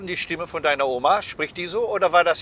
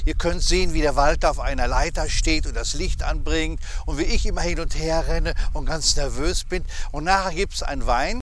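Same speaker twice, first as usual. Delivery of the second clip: promo read. Acted. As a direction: pitch the giveaway like an ad host. Promo for their giveaway.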